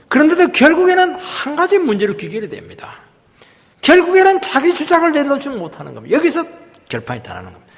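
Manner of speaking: high-pitched, insistent pulpit delivery; emphatic preaching. Real, not acted. Preacher warning the congregation about self-assertion, emphatic. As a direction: drive the point home to the congregation.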